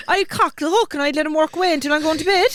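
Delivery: high-pitched Cork imitation; Cork accent. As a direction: give it your best singsong Cork. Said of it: "your best Cork accent".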